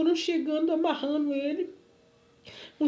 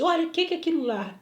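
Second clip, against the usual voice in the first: quick, higher imitated demand; acted insistent questioning; retold demanding question; 4 semitones higher, faster than usual. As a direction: quiz someone as the stranger did. Retold stranger quizzing her.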